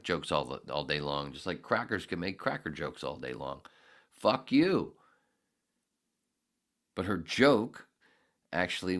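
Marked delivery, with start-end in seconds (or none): 4.1-4.9 angry outburst. Real, not acted. Ranting at critics.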